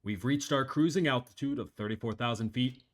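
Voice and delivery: captain over the plane intercom; calm pilot announcement through a speaker; pilot cockpit headset. Acted.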